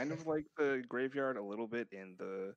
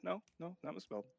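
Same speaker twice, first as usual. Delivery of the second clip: insistent correction; 10 semitones higher, 3 dB quieter than usual. Retold or imitated. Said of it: "I was like".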